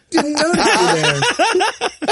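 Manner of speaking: camp it up like a diva caught off guard; mock newscaster one-woman show. Mocking the anchor's one-woman show, half laughing. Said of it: "like she's about to do her one-woman show".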